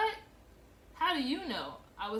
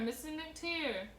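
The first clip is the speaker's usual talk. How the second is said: slow, stretched-out call of "McTeer", higher pitch; girl calling the mother again, slower and drawn out; drawn-out holler; 7 semitones higher, much slower than usual. A narrator's reading. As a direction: drag the name out long like a tattling child. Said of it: "Rosemary hollered".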